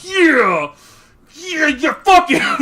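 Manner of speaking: high, loud cheering yell; hyped cheering. Retold or imitated. Fan cheering Alphinaud's plan to kill Xenos, hyped yell.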